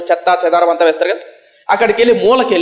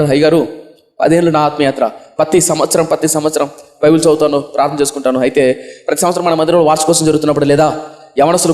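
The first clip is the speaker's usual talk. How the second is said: put-on a young man's lower, grieving confession; lower sorrowful confession; 4 semitones lower than usual. A weeping young believer confessing to his pastor, lower and grieving. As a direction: pour out the story lower and heavy with regret.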